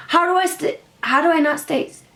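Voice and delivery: mock laughing disbelief; imitating cracking up. Rapper laughing at her question, imitated breaking up mid-words. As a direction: repeat the question as if it's hilarious. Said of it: "This dude cracked the fuck up".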